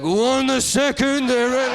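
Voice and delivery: high, drawn-out cartoon rat voice; put-on Splinter rat voice; rat accent. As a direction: stretch it out slowly as a high-pitched rat. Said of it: "there's just a rat that's like".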